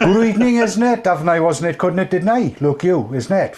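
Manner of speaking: hammed-up Welsh for the viewers; playful mock Welsh; Welsh accent. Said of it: "For the Welsh viewers".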